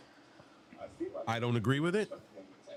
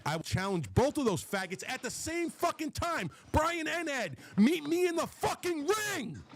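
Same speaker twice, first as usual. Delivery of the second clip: furious challenge; 12 semitones higher than usual. Real, not acted. Ranting at rivals, daring them to meet him in the ring. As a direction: voice climbing much higher into a furious yell.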